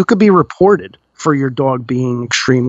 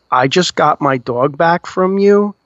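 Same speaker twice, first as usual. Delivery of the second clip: angry wife; slower than usual. Retold or imitated. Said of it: "onslaught of the gentleman's wife".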